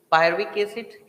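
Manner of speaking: पायरुविक said as pay-ru-vik, the r hardly sounded; silent r. Shown as a demonstration. Teacher showing students the r in पायरुविक is silent. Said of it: "आर हम लोग silent रखते हैं".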